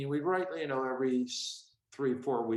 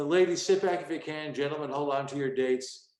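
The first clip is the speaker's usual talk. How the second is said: announcer intro. Shown as a demonstration. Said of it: "the introduction was".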